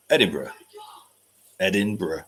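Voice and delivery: Edinburgh said "ED-in-bruh"; careful "ED-in-bruh" for Edinburgh; trying Edinburgh. Shown as a demonstration. Host practising after chat's correction: careful Edinburgh. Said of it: "I cannot pronounce Edinburgh properly".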